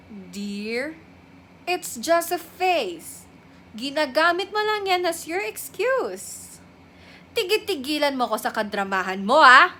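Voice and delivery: lightly voiced dismissive mother; a hint of a scolding mom, ending loud; imagined mother. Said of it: "Na-imagine ko na kung nalaman ng mama ko". (bahagyang panggagaya sa nanenermong nanay)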